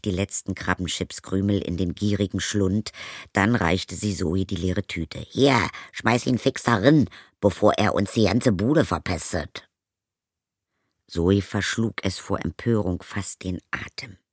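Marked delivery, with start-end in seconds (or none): 5.3-9.7 stepmother voice. Acted. Stepmother proposes a crude idea to Zoe, brash. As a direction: pitch her up, pushy and crude. Stepmother hands over bag.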